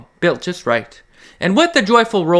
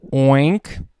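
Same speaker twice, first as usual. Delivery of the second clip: pig oink; 3 semitones lower than usual. Acted. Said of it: "says the pig".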